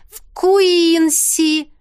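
высоко и медленно тянет «Куинси»; выше, растягивая слова; Теа повторяет. A narrator's reading. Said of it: "повторила Теа". (Теа медленно выкрикивает «В Куинси!»)

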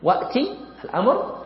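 usual speaking voice

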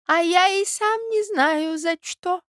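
put-on high, slow feeble old man; high slow weak old voice. A narrator's reading. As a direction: answer faintly from weakness. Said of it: "отвечал старичок от слабости".

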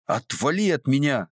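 high, furious "get off me"; angry shout. A narrator's reading. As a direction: drive him away in anger. Girl fights off the man. (высоко и зло)

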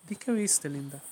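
put-on a sugary plea to a stubborn child; sweetened voice. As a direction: coax her with a honeyed voice. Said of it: "endulzando la voz".

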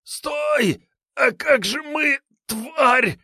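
high rasping furious bandit; rasping strained mutant. A narrator's reading. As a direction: rasp it out in hatred. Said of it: "прохрипел от злобы бандит".

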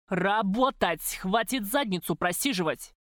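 громко и медленно, зло; рявкни на работников; злобный окрик. Acted. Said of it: "Злобный голос Карася". (хозяин орёт на официанток в баре)

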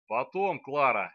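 curt, loud cut-off; sharp. Acted. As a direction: snap at her to stop. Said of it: "резко сказал некромант". (резко, обрывая её)

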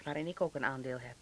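a bitter little whisper tucked in; whispered aside. Acted. Santje grumbling about the factory board, whispered aside.

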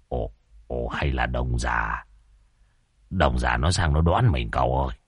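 low, soft worried mutter; a hint of an uneasy old man; wary muttering. A narrator's reading. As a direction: master warning the young man of a rival. Spotting a car arriving.

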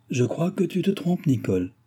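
high, gentle contradiction. A narrator's reading. Mistress correcting her maid, with great gentleness. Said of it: "avec la plus grande douceur".

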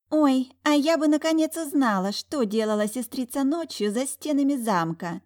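high, mocking hiss of a sly sister; hissing spiteful sister. A narrator's reading. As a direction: needle her with false sweetness. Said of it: "прошипела Сафира". (ядовито шипя, высоким голосом)

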